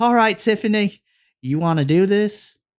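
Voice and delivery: put-on horrible, clumsy Irish accent. Retelling what a wrestler says on the mic: horrible Irish accent. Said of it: "I'm gonna do horrible, like, accent".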